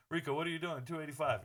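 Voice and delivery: mildly mock a questioning fan; lightly voiced doubter. Imitates viewers questioning his small bet.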